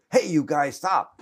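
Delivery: high, loud shouted command, rising to the last word; retold yell. Marines with guns ordering drivers to stop, yelled. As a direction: re-enact soldiers yelling a halt. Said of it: "And they yelled at them".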